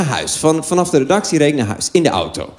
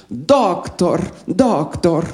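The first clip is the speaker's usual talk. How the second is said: retold calling out; much slower than usual. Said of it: "die riep".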